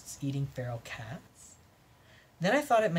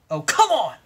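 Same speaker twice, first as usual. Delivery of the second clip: exasperated groan; 5 semitones higher, 9 dB louder than usual. Acted. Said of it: "I said into my hands".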